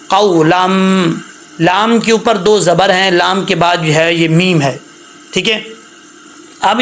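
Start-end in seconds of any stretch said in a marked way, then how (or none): 0.1-1.1 قَوْلًا with an unlengthened وْ; teacher demo of قَوْلًا; short waw leen. Shown as a demonstration. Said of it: "واو لین کے طور پہ پڑھیں گے".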